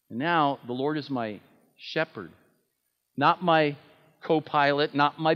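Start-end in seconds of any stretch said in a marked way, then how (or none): 0.6-2.3 "shepherd" set apart after a short pause; stress on shepherd. Shown as a demonstration. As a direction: hold back, then place "shepherd". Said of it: "bring the emphasis to that last word".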